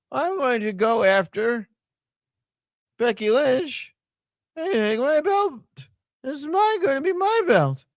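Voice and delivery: high-pitched mocking woman's voice; squeaky mock threats, phrase by halting phrase; Natalya. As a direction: pitch it way up for a hammed-up wrestler's promo. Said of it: "finally get an answer from Natalya".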